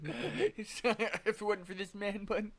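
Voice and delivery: high-pitched stubborn vow, retold; mock-defiant insistence; adamant. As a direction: declare it like a final decision. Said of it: "I'm just, like, adamant".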